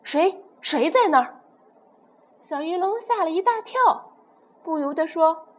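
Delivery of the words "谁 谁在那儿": scary voice. Acted. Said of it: "用很可怕的声音问".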